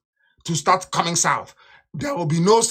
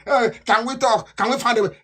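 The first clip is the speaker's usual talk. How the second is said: mock begging; 4 semitones higher than usual. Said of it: "They are begging".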